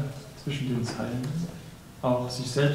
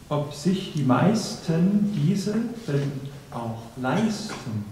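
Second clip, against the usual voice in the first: poem recitation; slower than usual. Acted. Reciter presents a poem on love and achievement, deliberate poem recitation. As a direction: recite with weighty pauses between phrases.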